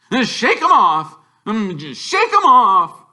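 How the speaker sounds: high, loud manic chant of a man losing it; hammed-up frantic repeating; Uncle Vernon muttering. A narrator's reading. Uncle Vernon to himself while swerving, manic and loud. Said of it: "he would mutter whenever he did this".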